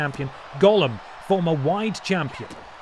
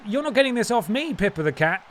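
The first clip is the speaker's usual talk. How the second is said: higher, taunting villain voice; Gollum's voice; 5 semitones higher than usual. Pretend. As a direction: gloat like a cocky champion. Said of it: "What could Gollum possibly be saying?".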